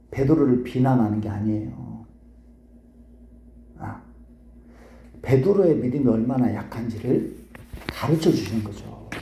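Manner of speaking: ordinary delivery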